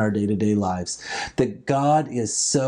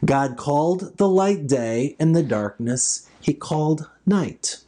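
scripture reading. Acted. Reads Genesis one aloud.

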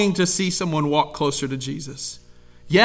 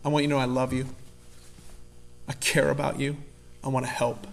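soft, lower, tender reassurance; loving tone; 4 semitones lower, 9 dB quieter, faster than usual. Retold or imitated. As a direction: reassure a friend gently. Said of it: "that kind of tone".

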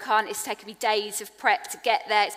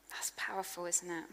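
whispered awe; 4 semitones lower, 10 dB quieter than usual. Real, not acted. Whispered reflection.

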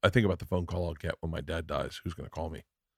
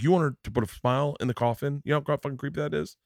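high-pitched mock disbelief, speeding up at the end; incredulous dad; 6 semitones higher, faster than usual. Dad retold explaining the coffin to his son, incredulous. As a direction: imitate a father appalled by the idea.

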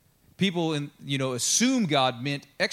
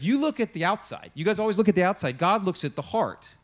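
voicing God; 5 semitones higher than usual. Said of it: "and he's like".

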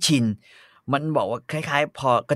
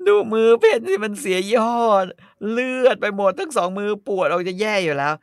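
whiny refusal; 7 semitones higher, 4 dB louder than usual. Acted. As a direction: whine like a spoiled lady. Pen complaining about hands.

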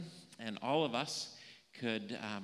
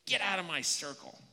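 mock name-calling; 4 semitones higher than usual. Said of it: "call me names? Say".

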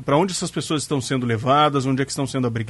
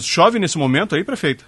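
louder, higher repeat over a bad line; 5 semitones higher, 4 dB louder than usual. Real, not acted. Repeats question after line breaks.

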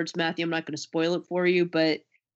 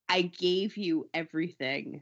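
slow, hushed, wounded; quoting the actress again; slower than usual. Retold or imitated. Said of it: "the way that she says it".

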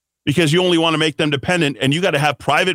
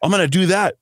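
lightly mocked Hispanic accent, a little higher; put-on Hispanic accent; 4 semitones higher than usual. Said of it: "I'm doing that in the accent".

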